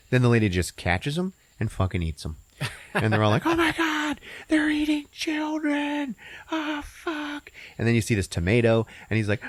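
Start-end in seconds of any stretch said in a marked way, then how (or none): 3.5-7.5 high, slow cartoon horror; tiny vegetables in mock horror; squeaky horror. Vegetables horrified.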